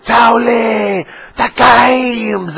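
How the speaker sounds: high, loud burst of energy; Athene's electric greeting. Retold or imitated. Streamer greeting a fan with wild energy, loud excited shout. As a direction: explode with enthusiasm. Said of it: "as electric as you see him".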